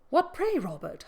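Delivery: high, loud call from the doorway. A narrator's reading. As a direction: shout the question across the hall. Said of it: "hallooed Linton from the entrance".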